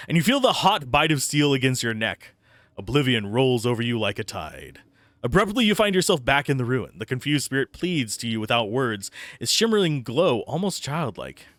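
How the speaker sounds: steady dramatic storyteller read; story narration. Acted. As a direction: narrate it like a dark tale. Reads game text aloud.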